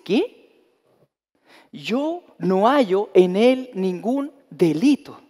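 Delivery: slow, drawn-out declaration; Pilate declaring. Acted. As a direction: spell out the verdict slowly. Pilate's verdict voiced.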